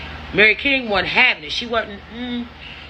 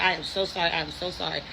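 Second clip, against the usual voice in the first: soft, fading imitation of pleading; retold begging; 4 semitones lower, 9 dB quieter, faster than usual. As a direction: repeat the apology quietly, letting it sink away. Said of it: "I am begging for my whole life".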